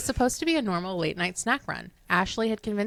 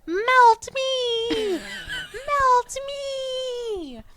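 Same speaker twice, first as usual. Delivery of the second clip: high, loud shrieking wail; wailing food creature; 4 dB louder, much slower than usual. Acted. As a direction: wail like a melting cursed snack. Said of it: "its cheese-filled mouth wailing".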